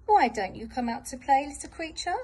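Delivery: sly, coaxing wolf luring the creature out; a lightly voiced wolf, sweetly tempting. Wolf coaxes the little creature out of its cave, sly and sweet. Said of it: "asks the wolf".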